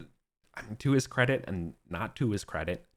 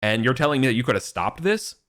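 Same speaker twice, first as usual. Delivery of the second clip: mild retold anger; 4 dB louder than usual. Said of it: "Arthur's getting kinda mad".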